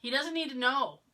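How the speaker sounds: retold protest with punched words; insistent protest. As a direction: act out an urgent telling-off. Retells begging partner not to tell.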